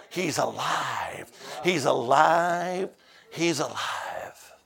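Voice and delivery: slow, soft, sinking repetition; hushed refrain. Real, not acted. Preacher repeating the news to the church, slow and hushed. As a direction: let the refrain die down slowly.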